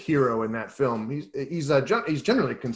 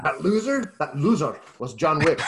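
mock Irish accent. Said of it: "my Russian became an Irish accent".

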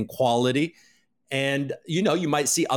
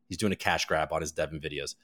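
low, soft mocking reread of the comment; muttered mock reread; 9 semitones lower, 6 dB quieter than usual. Mocking a viewer's comment under his breath. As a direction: mutter the critic's words back with scorn.

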